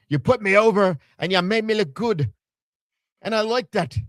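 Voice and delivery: high-pitched, botched attempt at an accent; Finn Balor. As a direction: put on a high, muddled foreign accent. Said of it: "I don't know what accent is that".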